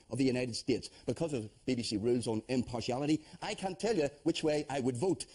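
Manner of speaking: host news read. Acted. Host reads scripted news gag.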